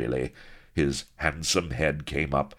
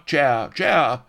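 high, loud shouts; crowd shout; 11 semitones higher, 8 dB louder than usual. A narrator's reading. Pirate mob shouting for the chair, high and loud. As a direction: bellow for the chair. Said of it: "Cries of".

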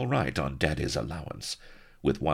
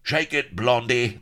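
high, raised jeering shout; chorused catcall; 10 semitones higher, 5 dB louder than usual. A narrator's reading. Pirates chorusing at the lady, jeering catcall. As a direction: yell it out high like a rowdy crowd. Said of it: "they chorused".

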